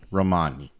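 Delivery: Romani rolled out with an Italian lilt; Italian accent. Real, not acted. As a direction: Romani said ro-MAH-nee, Italian-sounding vowels. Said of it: "Why do I sound Italian when I say that?".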